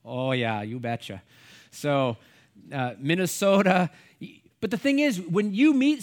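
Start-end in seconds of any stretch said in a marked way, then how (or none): 0.0-1.2 put-on Minnesota accent, long round o's; mock Minnesotan vowels. Shown as a demonstration. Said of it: "or how about Minnesota?". 3.0-3.9 punched-up Minnesota vowels; put-on Minnesota accent. Shown as a demonstration. Repeats the demonstrated regional accent.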